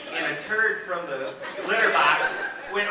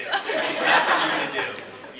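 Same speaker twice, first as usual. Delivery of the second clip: drawn out, hushed, resigned; slow emphatic repeat; 4 semitones lower, slower than usual. Shown as a demonstration. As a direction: slowly drive the point home.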